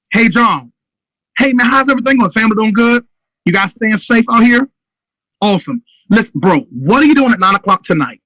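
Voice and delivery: upbeat, urgent phone invite; right phone invite. Shown as a demonstration. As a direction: pitch it short and urgent. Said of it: "Eh, wrong".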